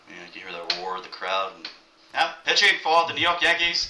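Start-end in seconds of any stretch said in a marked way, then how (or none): 2.1-3.9 booming high echoing announcer; stadium announcer. Retold or imitated. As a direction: call it like the ballpark PA. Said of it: "the echo announcer".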